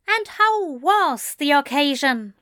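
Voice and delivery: high, icy question; frosty, affronted angel. A narrator's reading. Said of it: "Aziraphale's voice went frosty".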